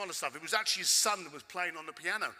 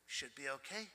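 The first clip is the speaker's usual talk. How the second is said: dismissive mumble; 5 semitones lower, 12 dB quieter than usual. Retold or imitated. Curator's grudging reply, mumbled.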